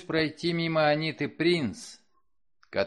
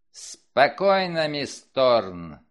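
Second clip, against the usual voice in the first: slow, loud, stern command; firm warning; 6 dB louder, much slower than usual. Acted. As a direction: stop her with a firm word. Inspector grips her arm firmly.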